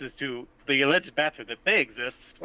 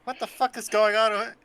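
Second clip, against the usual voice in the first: angry yell; 10 semitones higher than usual. Acted. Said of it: "this other guy is like".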